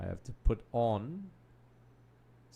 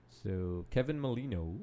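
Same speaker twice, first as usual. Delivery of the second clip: slow, slightly softer American-accented delivery; 3 semitones lower, 4 dB quieter than usual. Real, not acted. Commentator naming the incoming substitute, in a slight American accent. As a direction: slip lightly into an American accent. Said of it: "I don't know why I did an American accent there".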